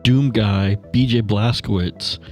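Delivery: ordinary talk, nothing marked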